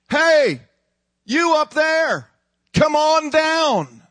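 high, loud, slow drawn-out call; the devil calling the believer down from the tower; devil taunt. Acted. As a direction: lure them down with a slow sneer.

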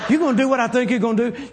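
eager, laughing disbelief; half-laughing, wide-eyed ask; excited laughing question. Retold or imitated. Excited friend asks, laughing.

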